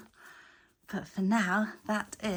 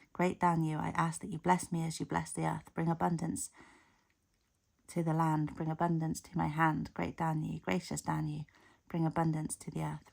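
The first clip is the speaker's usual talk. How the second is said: prayer. Acted. Reads a prayer to Danu.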